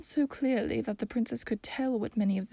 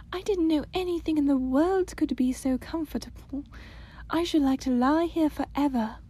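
put-on high, louder happy girl; delighted young princess; 4 semitones higher, 4 dB louder than usual. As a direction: sigh with childish bliss.

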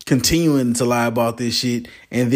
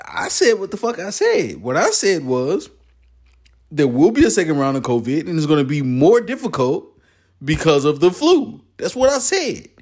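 higher, indignant quote, ending way up; defiant scientist; 5 semitones higher than usual. Retold or imitated. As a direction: stand your ground, mock-exasperated. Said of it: "He's like".

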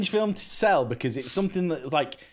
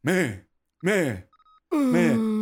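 "Meh" said three times, plain and flat; a lightly done copy of the film's "meh"; flat film version; 3 semitones higher, much slower than usual. Shown as a demonstration. Showing friends how the film does it, flat. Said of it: "in the film, he does it like this".

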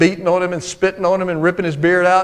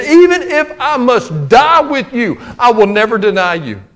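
brave promise; 3 semitones higher than usual. Retold or imitated. Peter's vow in quote.

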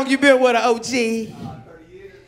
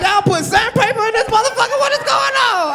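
retold disbelief; 8 semitones higher than usual. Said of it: "I'm like".

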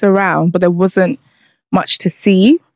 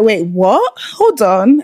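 retold disbelief; 3 semitones higher, much slower than usual. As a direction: replay being caught off guard. Retelling her shocked reaction to tailor.

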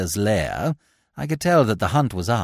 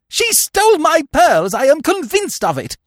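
shrieked accusation; 12 semitones higher, 5 dB louder than usual. Acted. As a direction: accuse in outraged hysterics. Hysterical aunt accuses chambermaid.

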